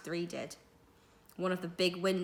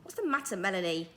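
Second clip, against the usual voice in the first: impatient teacher's snap; a mild snap from a cross headmaster; snapped; 3 dB louder than usual. Acted. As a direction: bark the question at the pupil. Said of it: "snapped Mister Potter".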